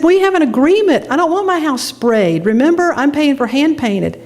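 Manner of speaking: high, heated argument; angry protest. Retold or imitated. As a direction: insist angrily on the deal. Arguing with the painter.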